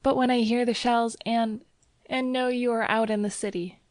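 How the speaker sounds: put-on high, pleading girl's voice; worried young woman. A narrator's reading. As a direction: plead with him anxiously. Girl pleads, fearing for lover.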